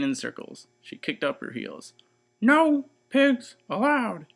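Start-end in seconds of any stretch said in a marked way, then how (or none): 2.4-4.3 slow, high, loud angry yell; furious drawn-out shout. Acted. Eugenia chasing Mercy across the yard: slow furious shout. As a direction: stretch out each word in rage. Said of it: "Eugenia shouted".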